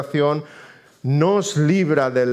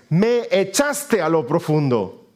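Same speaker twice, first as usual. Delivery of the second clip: slow, higher scripture declamation; Jonah's cry; 4 semitones higher, slower than usual. Acted. Preacher quoting Jonah to God, slow declamation. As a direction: proclaim each word slowly as Jonah. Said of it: "Dice Jonás".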